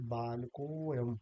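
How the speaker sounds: बालकोयम said as one word with a drawn-out को; joined with long o. Shown as a demonstration. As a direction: stretch the को in बालकोयम, no separate अ. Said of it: "इसको कैसे बोलेंगे".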